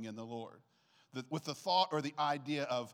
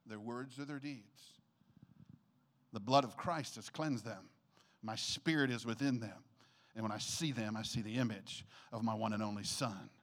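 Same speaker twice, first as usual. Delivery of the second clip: gentle voice of God; 5 semitones lower than usual. Retold or imitated. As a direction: speak it like a loving father. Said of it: "But God's heart is".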